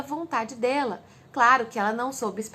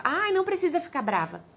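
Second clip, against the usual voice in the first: higher-pitched mock parental brush-off; reflexive dismissal; 5 semitones higher than usual. Parent automatically brushing off an angry child, dismissive. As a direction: brush the child's feeling away with an "ai".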